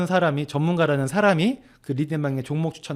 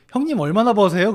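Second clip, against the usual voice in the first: higher and louder, brash and curious; 1 eager question; 7 semitones higher, 8 dB louder than usual. Retold or imitated. Younger friend asking the host about his pay, brash. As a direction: fire the question out cheekily.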